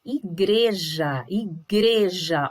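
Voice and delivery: "igreja" slowly, with GRE standing out; stress on GRE. Shown as a demonstration. Teacher showing pupils the tonic syllable, slow stressed GRE. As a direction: stretch i-GRE-ja, strongest on GRE. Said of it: "saiu mais alto".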